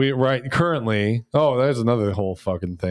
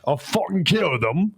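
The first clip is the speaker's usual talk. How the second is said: higher-pitched put-on British accent; British monster; 3 semitones higher than usual. British monster over a dog, mock-threatening British accent. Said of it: "Maybe he's a British monster".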